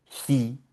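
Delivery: "ji" as German hi, H audible; sounded H. Shown as a demonstration. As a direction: breathe the H into "ji", like hee. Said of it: "La H con la I".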